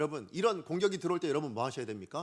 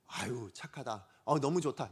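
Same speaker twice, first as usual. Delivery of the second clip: approving praise; 5 semitones lower, 3 dB quieter than usual. Acted. Preacher imagines Jesus praising Peter, gently approving. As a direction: coo gentle approval at a pupil.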